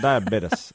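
diabetes ending in "tiss"; American "diabetes" imitation. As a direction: mimic diabetes as die-a-BEE-tiss. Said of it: "somebody in the States goes".

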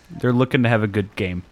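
mock Italian pundit speaking flatly in a heavy Italian accent; a hint of a heavy Italian accent; thick Italian accent. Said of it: "thick-ass Italian accent".

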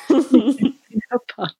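punchy ad announcer read; infomercial voice. Acted. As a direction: sell it like a TV ad. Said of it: "my best, like, infomercial voice right there".

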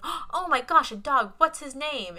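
high, loud mock-child gushing; excited kid. Little brother promised a dog, excited kid. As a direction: imitate a small boy bursting with excitement. Voices boy thrilled about a dog.

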